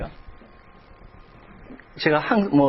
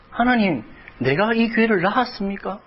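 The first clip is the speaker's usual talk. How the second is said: higher, rising plea, 교회를 stretched out long; anguished cry to God; 6 semitones higher than usual. Retold or imitated. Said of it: "그렇게 부-, 울부짖었습니다". (높은 톤으로 하나님께 울부짖듯)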